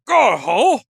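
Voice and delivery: a brief mock character call; Bess. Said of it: "That's what Bess sounds like".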